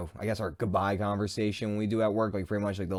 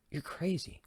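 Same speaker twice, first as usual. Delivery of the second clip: unspoken thought; 9 semitones higher, 8 dB quieter than usual. Retold or imitated. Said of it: "Like, I didn't say it".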